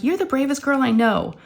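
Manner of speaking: high-pitched coaxing praise; retold encouragement. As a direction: talk up a frightened child. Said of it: "trying to talk her down".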